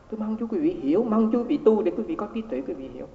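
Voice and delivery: earnest, emphatic plea. Retold or imitated. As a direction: plead with them to understand. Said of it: "nói cái giọng mà kêu bằng là không biết làm sao mà trả lời".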